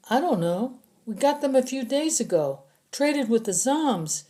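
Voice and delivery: high, anxious captive voice; a scared prisoner explaining to his captors; frightened prisoner. Acted. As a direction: talk fast to save your skin.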